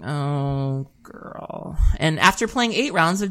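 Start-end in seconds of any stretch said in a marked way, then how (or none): 0.1-1.8 quiet acted dread, fading to a whisper; under-the-breath "uh-oh" reaction; hushed dismay. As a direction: let it trail into a whispered groan of recognition. Retold dread on seeing opponent.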